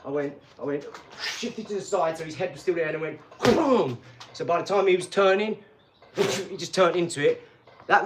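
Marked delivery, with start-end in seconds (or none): 3.4-4.0 falling "boom" sound effect; drawn-out impact noise; imitated punch impact. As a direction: voice the punch landing, booming.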